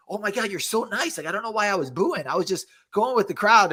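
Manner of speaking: high gushing voice of a fan; old lady fan. Retold or imitated. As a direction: gush like an apologetic sweet lady. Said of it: "And then she's like".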